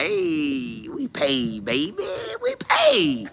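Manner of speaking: high, drawn-out croon; carefree mock gloating. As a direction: wail it out high and stretched, like money solves everything. Players shrugging off losses over paychecks.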